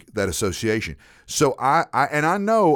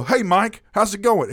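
higher, louder cheery hello; teasing greeting; 10 semitones higher, 5 dB louder than usual. Retold or imitated. Mock cheery greeting to coworker with fake name. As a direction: call out brightly to needle him.

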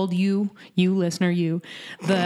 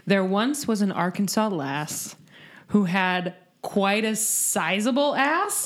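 limerick recitation; slower than usual. Acted. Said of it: "Here's the limerick I wrote for Julie".

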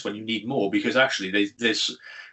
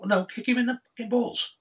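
yelling at screen; 11 semitones higher than usual. Retold or imitated.

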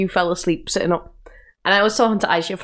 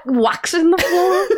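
laughing; 9 semitones higher than usual. Real, not acted. Laughing mid-sentence at friend.

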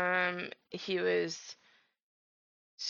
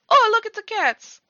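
a bad French impression that comes out Italian; failed French accent; 12 dB louder than usual. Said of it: "I don't know why I was Italian".

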